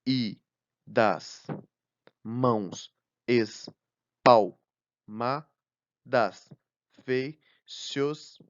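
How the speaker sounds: unhurried verse recital, stretching mãos espalmadas; reading a poem line. Shown as a demonstration. Teacher rereading the sonnet verse to the class, measured. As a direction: savour the line before counting it. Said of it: "Voltando ao início".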